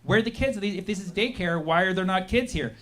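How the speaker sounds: soft, innocent-sounding question; a YouTuber softly fakes innocent curiosity at the door; faux-innocent asking. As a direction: ask sweetly as if you mean no harm. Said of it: "asking very genuinely".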